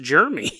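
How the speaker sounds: "Jeremy" squashed into two syllables, JER-mee; mispronounced name. Retold or imitated. Host recalling his old mistake, "Jeremy" said as two-syllable "Jermy". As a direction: say "Jeremy" as "Jermy", middle vowel dropped. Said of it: "I thought it was pronounced".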